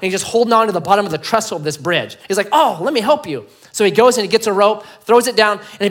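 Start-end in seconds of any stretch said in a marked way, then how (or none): 2.5-3.5 higher, louder mock call; eager rescuer. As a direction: offer help with a lightly acted urgency. Rescuer calls down in story.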